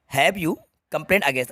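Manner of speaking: slow incomplete version read out; slow reading, incomplete sentence. Shown as a demonstration. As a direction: read the incomplete question slowly. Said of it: "ठीक है". (अधूरा वाक्य धीरे पढ़ना)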